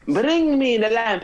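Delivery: slow, high mock villain; slow hammed-up villain line; Jafar imitation.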